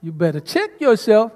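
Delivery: sister's sassy take on the line; with attitude. Shown as a demonstration. Sister shows the congregation the line, sassy. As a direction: say it like you mean it. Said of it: "How would you say that?".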